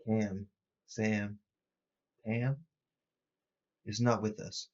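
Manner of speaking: flat monotone voice, barely his own. Acted. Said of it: "a very monotone voice that doesn't sound like his own".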